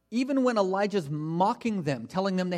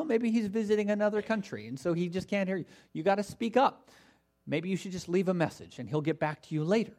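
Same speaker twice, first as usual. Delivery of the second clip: mildly teasing fake advice; light mock helpfulness; 3 semitones higher than usual. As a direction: offer excuses with a touch of sarcasm, starting high and settling. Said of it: "he's making fun of them".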